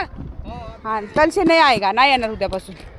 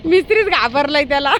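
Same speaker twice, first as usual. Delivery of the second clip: ordinary delivery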